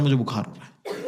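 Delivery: low, soft, feeble fake-ill whine; mock sick voice. Father pretending fever to dodge his wife, low feeble mock whine. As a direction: play the poor sick husband, hammed-up.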